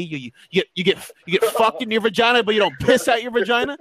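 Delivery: high-pitched imitation of a drunk rant; retold yelling. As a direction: imitate a friend yelling an absurd question. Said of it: "you were yelling at a girl".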